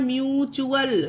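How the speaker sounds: slow म्यूचुअल, "myoo-chual"; ch sound for T. Shown as a demonstration. Teacher answering how it is read, slow म्यूचुअल with "ch". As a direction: say म्यूचुअल slowly with a clear "ch". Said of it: "इसे क्या पढ़ा जाता है".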